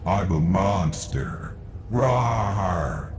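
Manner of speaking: slow playful monster growl; mock monster. Shown as a demonstration. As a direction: growl like a harmless little monster. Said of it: "He looks like a monster".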